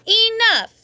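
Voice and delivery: loud, high, sharp "Enough!"; loud holler. A narrator's reading. Nana hollering at the children, loud and sharp. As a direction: shut the children down. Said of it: "hollered out real loud".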